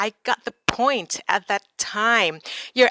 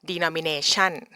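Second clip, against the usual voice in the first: denomination rising on the last syllable; a second take of denomination with the end lifted; Thai-style stress; 3 semitones lower, 4 dB quieter than usual. Shown as a demonstration. Teacher repeating the typical Thai pronunciation. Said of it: "I'll say it again".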